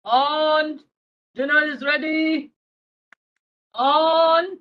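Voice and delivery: put-on grandpa calling a child to dinner; sing-out dinner call. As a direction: draw the words out to carry to the next room. Grandpa calls boy to dinner.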